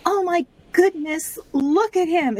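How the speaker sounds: high, breathless swoon; swooning heroine. Retold or imitated. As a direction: gush over a handsome man.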